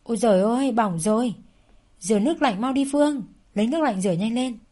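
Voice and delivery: alarmed housekeeper shouting to rinse the burn. Acted. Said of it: "Bác Huệ nghe thấy thế thì hét ầm lên".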